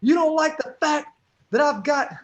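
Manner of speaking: high, loud trash-talk promo; wrestling promo voice. Retold or imitated. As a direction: cut a hammy wrestling promo. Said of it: "I'll do it like this".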